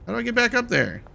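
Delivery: sudden alarm, pitch jumps up; panicked high whine. Real, not acted. Gamer stuck down a hole, panicking. Stuck after falling in game.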